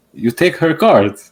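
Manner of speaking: high, loud, slow mock accusation; accusing customer. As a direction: imitate an accuser, loud and drawn out. Acts out member accusing him at work.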